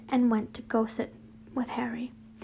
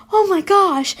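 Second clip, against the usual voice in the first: loud, high "Oh my gosh"; shouted; 7 semitones higher, 12 dB louder than usual. A narrator's reading. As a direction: burst out in shock. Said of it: "I shouted".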